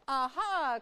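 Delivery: loud triumphant aha; pills crying out. Acted. Pills finding Buzz, triumphant cry. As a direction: catch him with a shout. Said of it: "cried the pills".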